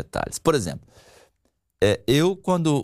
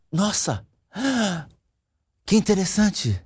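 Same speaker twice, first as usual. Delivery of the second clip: interested listener; 8 semitones higher, slower than usual. Shown as a demonstration. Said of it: "Ou então assim".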